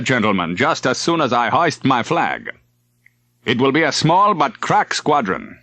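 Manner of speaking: an admiral briefing his captains, unruffled and bland. A narrator's reading. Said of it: "Leitner looked at them blandly".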